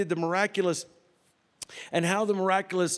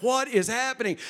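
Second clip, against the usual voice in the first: high, baffled mock reaction; retold alarmed bewilderment; 7 semitones higher than usual. Preacher retelling his reaction to banging, mock bewilderment. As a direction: act out being thrown by a strange noise.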